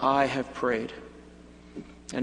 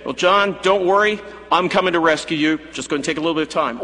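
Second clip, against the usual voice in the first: louder, promising rescue to John; reassuring Jesus; 4 dB louder, faster than usual. Pretend. Jesus reassuring the imprisoned John, loud and eager. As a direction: reassure the prisoner that help is coming. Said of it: "He could have said".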